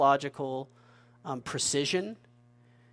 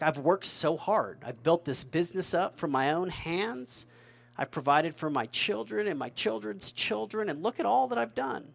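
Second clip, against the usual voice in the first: mock boast, pitch climbing higher; proud self-made boaster; 3 semitones higher than usual. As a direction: puff up like a proud businessman. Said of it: "We have economic pride".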